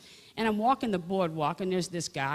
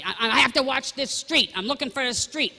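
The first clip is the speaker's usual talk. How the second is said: flustered dad; 7 semitones higher, 6 dB louder than usual. Retold or imitated. Father voiced while searching street.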